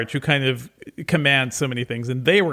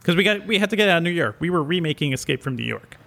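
basement echo. Real, not acted. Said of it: "So if he sounds a little bit echoey".

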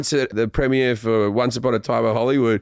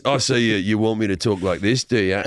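put-on lower Australian actor voice; Chris Hemsworth; 3 semitones lower than usual. Husband asking wife if she wants this talk, deep actor voice. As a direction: drop lower, teasing with the hero voice. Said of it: "And I was like this".

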